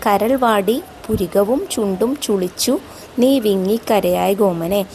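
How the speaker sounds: slow, measured verse reading with drawn-out vowels; poem recitation. Acted. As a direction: recite the verse slowly, lingering on phrase ends. Recites verse before explaining.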